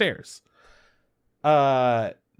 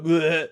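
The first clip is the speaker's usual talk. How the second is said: short fake gag; mock retching; 3 semitones higher than usual. Coworker describing gross stuff, mock retching. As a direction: imitate someone pretending to puke. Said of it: "pretending to throw up".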